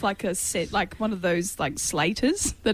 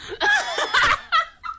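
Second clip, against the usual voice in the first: squealing laugh; high burst of laughter. Real, not acted. Bursts out laughing after the rap.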